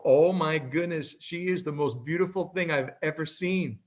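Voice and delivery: retold gush with a rising lilt; gushing admiration. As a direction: lightly imitate an older couple gushing. Older couples admire his daughter.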